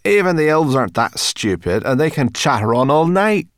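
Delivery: loud, high grumpy scorn; scornful growling character; growled. A narrator's reading. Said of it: "she growled".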